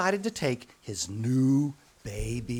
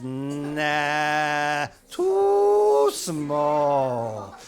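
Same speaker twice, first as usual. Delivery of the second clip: dismissive doctor; 4 dB louder, much slower than usual. Acted. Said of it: "He says".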